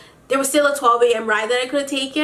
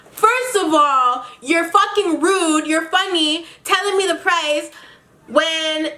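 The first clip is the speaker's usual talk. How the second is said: indignant rant; 5 semitones higher than usual. Real, not acted. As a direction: scold them for being rude. Ranting at the rude driver.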